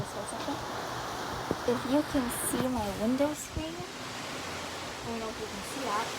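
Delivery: talking around a lollipop; words round a candy in the mouth. Real, not acted. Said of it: "I have a lollipop in my mouth".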